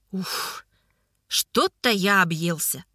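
breathy sigh, slow and sated; stuffed and puffing. A narrator's reading. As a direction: puff out, overfull from tea. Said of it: "вытерев пот".

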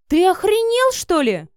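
furious shout, high and loud; barking. A narrator's reading. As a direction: bark it as she jumps up. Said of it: "гаркнула Марина".

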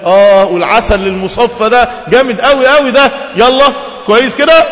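high, loud delight; loud, high joyful relish. Acted. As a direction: revel in the honey and rivers. Man delighting in paradise.

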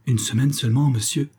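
a hint of despair in the pleading question; lightly voiced dismayed servant; understated despairing plea. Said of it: "sur un ton de désespoir".

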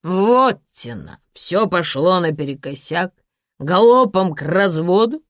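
put-on swaying drunk man gloating. Drunk Sasha voice.

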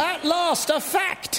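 exasperated shout. Acted. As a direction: shout it out at last. Exasperated outburst at the slow line.

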